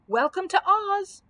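high, drawn-out joyful call; happy cry. A narrator's reading. Dorothy greeting her beloved homeland, crying happily. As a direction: call out loud and slow, pitched high. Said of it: "cried, looking down happily".

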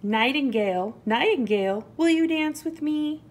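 high, eager mouse invitation; little mouse calling. A narrator's reading. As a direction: call the animal, then lift into the question. Mouse calls to an animal.

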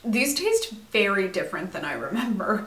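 talking between bites; chewing while talking. Real, not acted. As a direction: mouth partly full of cereal. Seen 3: Bite at -3.0, then she chews while speaking, spoon raised.

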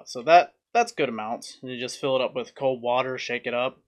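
normal talking voice

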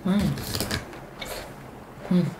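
muffled closed-mouth murmur; chewing while speaking. Real, not acted. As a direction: mouth full of food. Seen 1: Bite at -4.0; closed-mouth chewing and puffing through the labelled words.

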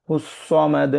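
সামাদ with rounded lips on the স; rounded sad. Shown as a demonstration. Teacher showing rounded lips for the sad. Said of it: "ঠোঁটটাকে গোল করে".

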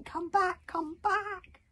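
high, thin calling out; shouting after them. A narrator's reading. Wish calls after the fleeing sprites, shouting. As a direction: plead for them to return. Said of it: "ignoring Wish shouting".

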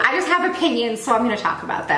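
talking while eating; mouth full. Real, not acted. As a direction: speak around a bite of food. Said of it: "Are you done eating?".

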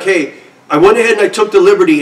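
quick mocking repairman voice; imitating the repairman. Mocking the repairman who modded his amp, quick and smug. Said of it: "he's like".

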